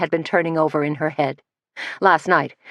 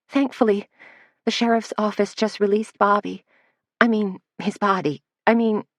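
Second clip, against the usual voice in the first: put-on higher girlish voice, words tumbling; a rattled young assistant correcting herself; flustered young Missy; 4 semitones higher than usual. Missy telling Suzanne about Bobby, flustered higher voice.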